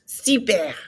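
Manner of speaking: "Super" with throaty R; model word. Shown as a demonstration. Teacher adds the forgotten word, clear French. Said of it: "did I forget super?".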